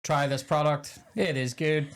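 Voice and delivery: stiff, stilted sales line; mock robotic plug. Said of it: "you're just robotic about it".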